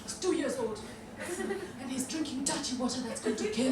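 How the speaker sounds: low, hushed charity-advert narrator; solemn charity ad. Retold or imitated. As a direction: sombre voiceover tugging at heartstrings. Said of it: "they'll be saying something like".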